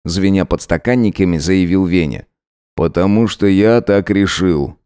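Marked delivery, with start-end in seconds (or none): 2.8-4.8 calm. Acted. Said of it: "спокойно ответил Зверев".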